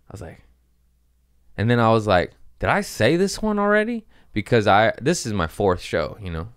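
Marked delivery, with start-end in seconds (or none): 2.6-4.1 high-pitched puzzled question; retold confusion. Comedian lost mid-set asking the crowd, high puzzled question. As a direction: wonder aloud, pitch shooting up.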